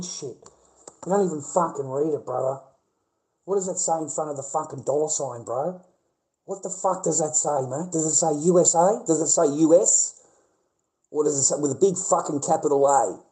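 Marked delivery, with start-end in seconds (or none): 6.4-13.2 louder, demanding, jabbing questions; fed-up shouting at a doubter; exasperated rant. Real, not acted. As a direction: hammer the questions at chat. Ranting at chat over dollars.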